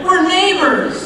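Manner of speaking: slow, beaming laugh on neighbors; laughing delight. Real, not acted. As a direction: laugh out the happy discovery. Delighted at the shared home.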